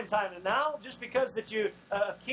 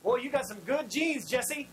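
eager Samuel; 3 semitones higher than usual. Retold or imitated. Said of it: "he's like".

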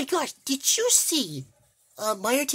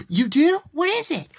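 gasp, then louder eager questions; eager surprise; 6 dB louder than usual. Acted. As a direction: react eagerly to news of a surprise. Character learns of a surprise.

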